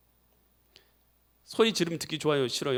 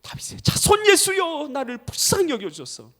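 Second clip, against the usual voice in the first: acted crying out; 9 semitones higher than usual. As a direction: imitate a beggar calling out, without full volume. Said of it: "소리 질렀어요". (높고 길게 부르짖는 흉내)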